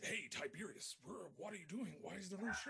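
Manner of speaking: high, swooping mock Brazilian accent; bad Brazilian accent. Host acts out Brazilian caller for co-hosts, bad imitated accent. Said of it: "bad accent".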